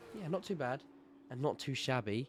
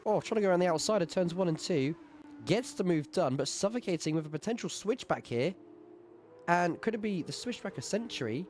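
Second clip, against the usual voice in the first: excited commentary; 5 semitones higher, 4 dB louder than usual. Real, not acted. Excited race commentary, overtake happening.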